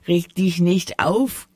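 grinning. Acted. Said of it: "grinste der ungebetene Besucher".

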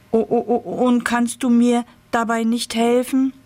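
high, eager pumpkin voice; a lightly voiced excited pumpkin.

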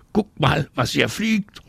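high, taunting call. A narrator's reading. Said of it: "ruft er".

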